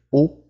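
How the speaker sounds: O closed with rounded lips; pursed closed French O. Shown as a demonstration. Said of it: "um pouquinho mais fechado".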